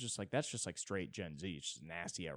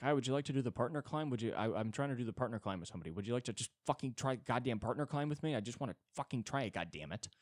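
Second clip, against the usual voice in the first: mock pushy pitch; 3 semitones higher, faster than usual. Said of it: "being like".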